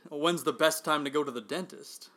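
straight-faced setup for a bad joke; deadpan. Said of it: "I'm gonna be totally deadpan".

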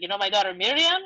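put-on dad's lightly Spanish-accented phone voice. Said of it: "so he has a great accent".

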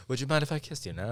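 put-on quick old colonial American accent. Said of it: "I did a colonial accent".

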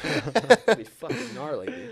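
put-on extreme hyped kids ad. Hyped about cliff jumping.

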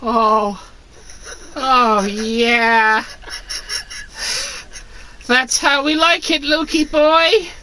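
high moaning Luke voice; pleasured Luke. Acted. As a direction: moan it out, high and loud. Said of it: "he said out loud to himself".

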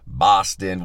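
loud, playful Boston accent. Shown as a demonstration. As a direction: say Boston with a put-on local accent. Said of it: "Why do I wanna do an accent when I say Boston?".

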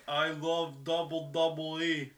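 slow, hammed-up Russian accent; mock Russian accent. Podcaster imitating a Russian wrestler loving the company, mock Russian accent. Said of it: "He still has the accent".

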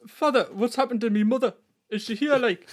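hammed-up Geordie child of the footballer; Geordie accent. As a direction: play the worried son in Geordie. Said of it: "do a Geordie accent".

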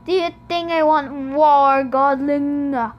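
loud, booming challenge; furious god bellowing at a demigod; bellowing Hades. A narrator's reading. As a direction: bellow it down at the boy. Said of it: "Hades bellowed".

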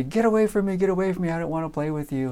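put-on mild kid annoyance, quickening and fading; little girls protesting. Girls repeating it to the pesky classmate, mildly annoyed. Girls fending off a boy again.

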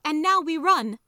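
high, loud rallying shout; called out. A narrator's reading. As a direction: call the whole group to flight. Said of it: "the first one called out".

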